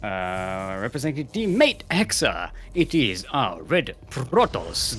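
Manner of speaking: punchy, stretched-out caster intro; announcer player introduction. Acted. Caster presenting the red Protoss player, announcer style. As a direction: build up to the player's name.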